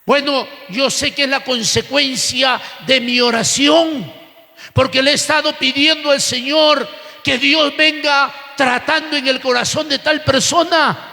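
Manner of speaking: insistent preacher pressing on phrase after phrase; forceful church sermon delivery; impassioned preaching. Real, not acted. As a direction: preach with fervent, driving conviction.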